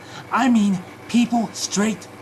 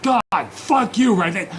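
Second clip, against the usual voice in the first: slow, louder yell of frustration, pitched up; angry shout; 3 semitones higher, 4 dB louder than usual. Real, not acted. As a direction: curse it out loud and slow. Yelling at Reddit on screen.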